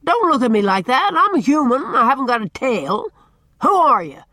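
loud, high, exasperated tirade; shouting. A narrator's reading. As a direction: bellow impatiently at a tongue-tied child. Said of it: "could have been heard at the harbor".

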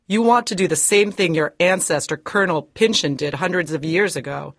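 put-on high, fierce scolding old woman; indignant high accusation; angry denunciation. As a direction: condemn his greed. Hepzibah denounces him.

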